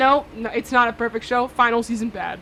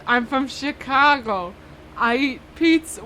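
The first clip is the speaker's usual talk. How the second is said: slow, half-remembered Chicago accent; hint of a Chicago accent, slow and deliberate; 4 dB louder, slower than usual. Shown as a demonstration. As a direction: put on a light Chicago accent. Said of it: "your Chicago accent".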